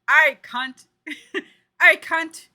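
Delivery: exaggerated Aussie impression breaking into laughter; Coyle's Australian accent. Streamer imitating Coyle's favourite swear word, hammed-up Australian accent. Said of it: "I feel like he says cunt a lot".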